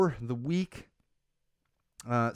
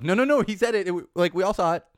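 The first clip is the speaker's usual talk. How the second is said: 1 heated insistence; 5 semitones higher, 5 dB louder than usual. Real, not acted. Heated rebuttal about the video.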